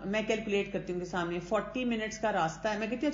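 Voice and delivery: ordinary talk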